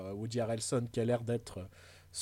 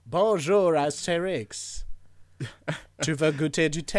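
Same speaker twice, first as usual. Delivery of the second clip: put-on louder, English-accented French, slow on Astérix; Astérix Breton accent; 5 dB louder, slower than usual. Briton greeting Astérix and offering tea, hammy English accent. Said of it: "l'accent anglais que t'entends dans Astérix chez les Bretons".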